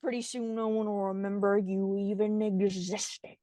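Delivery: imitated outlaw menace in a deep voice; menacing villain. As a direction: sink the voice right down, ominously. Villain's threat to the mayor.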